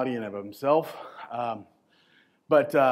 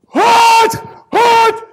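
high, loud grunted shouts; straining shout; 16 dB louder than usual. Acted. Lifter counting reps under the bar, loud straining shouts. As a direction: push out each rep with a yell.

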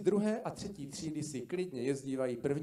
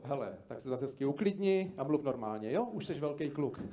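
mocking wife. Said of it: "A to ti klidně řekne žena".

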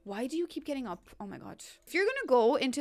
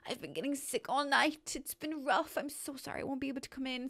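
mock sick caller; 3 semitones higher than usual. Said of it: "you know, like".

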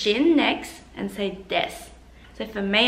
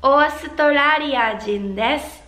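model line; 5 semitones higher, 5 dB louder than usual. Shown as a demonstration.

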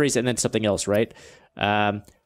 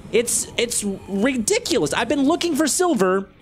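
frustrated rant; 6 semitones higher than usual. Real, not acted. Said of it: "super duper frustrated right now".

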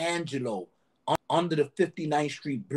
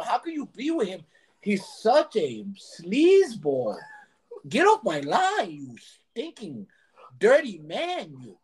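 mimicking the manager; 3 semitones higher, 4 dB louder than usual. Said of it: "That's how you would talk to people".

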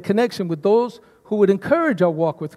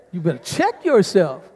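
with attitude. Shown as a demonstration. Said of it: "I want you all to say that with attitude".

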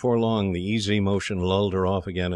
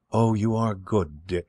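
put-on slow, sighed and grateful young girl; soft sigh; slower than usual. A narrator's reading. Rescued girl thanks Dick while riding, softly sighing. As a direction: breathe it out gently, thankful. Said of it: "she sighed softly".

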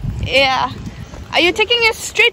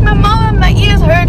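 put-on higher, louder whiny kid voice; 6 semitones higher, 6 dB louder than usual. Mom imitating her child complaining about ears. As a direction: whine like a child with sore ears. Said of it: "It's like".

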